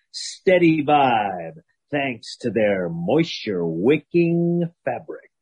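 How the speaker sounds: sports announcer ad read. Acted. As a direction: read it like a game-day ad. Football-themed ad read.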